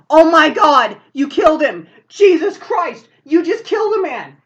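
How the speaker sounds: loud, high hysterical shock; acted horrified shouting. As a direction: shout in horror at a killing. Attendant witnesses the killing.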